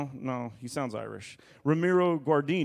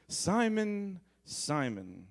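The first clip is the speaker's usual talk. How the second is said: annoyed; 5 semitones higher, much slower than usual. Retold or imitated. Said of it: "like, annoyed".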